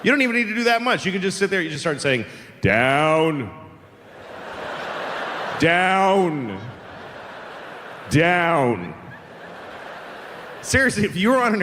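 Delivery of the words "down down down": slightly raised volume. Shown as a demonstration. Passenger sitting on a plane, slightly raised drawn-out chant. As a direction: repeat it evenly, just over talking level. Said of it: "at slightly above conversational volume".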